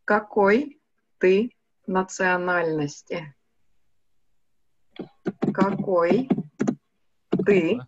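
медленно и чётко, по слогам «Какой ты национальности?»; произнеси «Какой ты национальности?» медленно и ясно. Shown as a demonstration. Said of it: "Nyt on ihan vaikea sana". (медленное учительское произношение)

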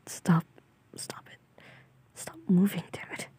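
half-whispered sleepy protest; sleepy grumble. Acted. Half-asleep speaker to partner moving in bed, sleepy grumble.

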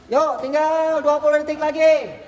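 time call. Real, not acted. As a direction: call out the countdown across the gym. Coach calling out time left. (seruan panjang pelatih)

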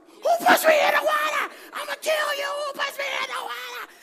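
very high, hollered outburst; acted-out high-pitched rage; furious retold yell. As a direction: scream it like a kid out for a fight. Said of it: "the next thing I wanted to do was fight".

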